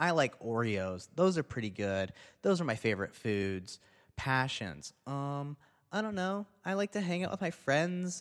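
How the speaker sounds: put-on stereotypical young woman voice. Describing someone whose passions are shallow, in a white girl voice. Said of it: "white girl, like, voice behind that".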